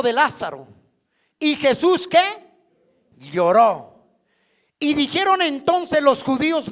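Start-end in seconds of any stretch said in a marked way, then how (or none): 3.2-3.9 "Lloró" dropped low and loud as the answer to his own question; emphatic answer. Acted. Preacher answering his own call to the congregation: a low, loud "Lloró".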